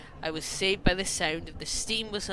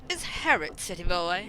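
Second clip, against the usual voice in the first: lightly refined, lifting at the end; posh voice. Acted. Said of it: "you asked for posh".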